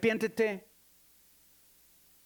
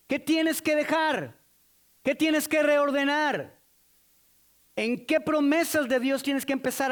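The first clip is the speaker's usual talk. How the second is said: forceful challenge; 5 semitones higher, 4 dB louder than usual. Real, not acted. Preacher challenging the congregation, high and loud. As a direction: press each question on the listeners.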